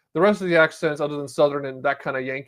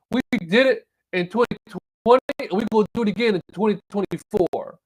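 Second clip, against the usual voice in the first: put-on Southern accent; 5 semitones higher than usual. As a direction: imitate a politician playing up a Southern accent. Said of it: "Why are you talking this way?".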